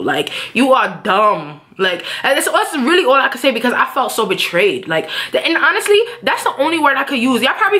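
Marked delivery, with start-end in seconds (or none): 0.5-1.6 slow, deliberate insult; cursing him out. Retold or imitated. Girlfriend cursing out boyfriend the whole ride, deliberate. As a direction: reenact cursing him out, spacing the words. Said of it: "really cursing him out".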